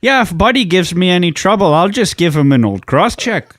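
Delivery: tough-talking Canadian hockey buddy; mock Canadian. Host threatens Buddy with a cross check, mock Canadian.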